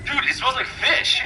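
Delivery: high-pitched mock answer; mock reply. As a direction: squeak it out as the buddy. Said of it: "And you're like".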